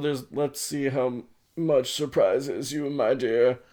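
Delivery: slow, drawn-out mock British; hammed-up British old gentleman; British accent. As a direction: put on a genteel British accent for Grandpa. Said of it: "I don't know why he's British".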